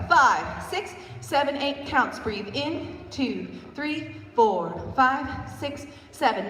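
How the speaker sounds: rhythmic counted cues over music; counting workout reps. Shown as a demonstration. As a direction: count the reps out loud on the beat. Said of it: "please count out loud".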